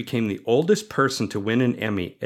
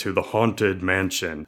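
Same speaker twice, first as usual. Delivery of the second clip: slow, ominous theatrical welcome; ghost host voice; 2 semitones lower, slower than usual. Retold or imitated. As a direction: greet the guests like a spooky host. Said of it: "that's probably a terrible impersonation".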